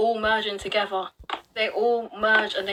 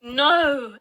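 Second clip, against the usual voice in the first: dismissive sceptic; 4 semitones higher, slower than usual. Retold or imitated. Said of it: "Someone might look at this and say".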